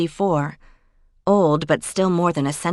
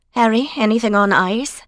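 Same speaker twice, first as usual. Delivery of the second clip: calling out; 5 semitones higher, 4 dB louder than usual. Acted. Calling to Harry across room.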